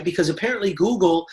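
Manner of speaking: deadpan sarcasm about Google as a source. Shown as a demonstration. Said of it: "Hear the sarcasm".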